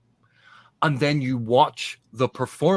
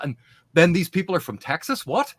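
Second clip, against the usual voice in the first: surprised; 5 semitones higher than usual. Retold or imitated. Imagined reader jarred by accents.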